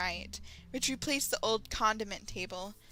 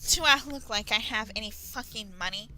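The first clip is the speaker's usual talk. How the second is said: mild growl; 5 dB louder than usual. Acted. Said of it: "he growls".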